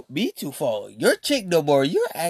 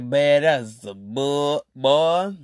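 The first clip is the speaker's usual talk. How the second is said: drawn out, calling nonsense; slow, unimpressed put-down; slow dismissive; 3 dB louder, much slower than usual. Retold or imitated. Answering the boyfriend, slow and dismissive. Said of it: "'cause I'm gonna be like".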